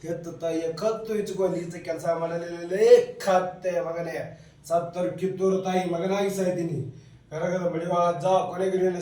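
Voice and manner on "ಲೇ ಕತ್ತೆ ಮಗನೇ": angry insult. Acted. Rayanna insults the traitor.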